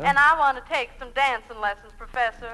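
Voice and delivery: lightly drawled Southern belle, sweet and coy; a hint of a Southern lady angling for favours; Southern belle accent. Woman asks the dancing professor for lessons, in a light Southern belle accent. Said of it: "pound cake with an accent".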